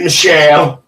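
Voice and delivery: mild mock yell; imitated shout. Host reads out Tim shouting for Michelle, mild mock yell. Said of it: "Tim shouting".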